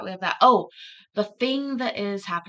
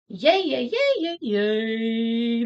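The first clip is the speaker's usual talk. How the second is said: excited cheer; 3 semitones higher, much slower than usual. Real, not acted. Cheering for donor.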